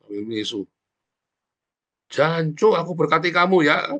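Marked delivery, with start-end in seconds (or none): 2.1-3.9 mock-irritated curse turning into a higher-pitched blessing; cursing, then blessing. Preacher models blessing someone while angry, mock-exasperated. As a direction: let the curse slip out, then bless them anyway. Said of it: "Jancunya tetap keluar".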